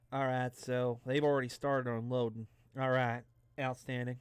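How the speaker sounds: put-on easygoing Southern accent; Southern good old boy accent. Traveler narrating the baggage unloading, light Southern accent. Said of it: "I'm gonna go with this accent".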